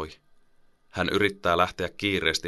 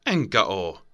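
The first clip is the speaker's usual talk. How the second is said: snapping. Acted. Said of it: "isoveli kivahtaa".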